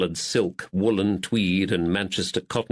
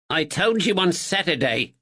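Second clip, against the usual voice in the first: stammering; 8 semitones higher than usual. Acted. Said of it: "Thatcher stammered".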